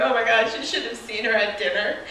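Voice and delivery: high, loud hammed-up wailing parent; mock crying. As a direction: wail in fake tearful outrage. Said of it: "they're just, like, crying".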